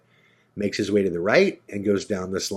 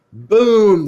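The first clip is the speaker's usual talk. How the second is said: a high, loud "Boom!" as the door bursts open; 10 semitones higher, 9 dB louder than usual. Retold or imitated. Narrating the door bursting open, loud and high. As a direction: smack the word out loud and high.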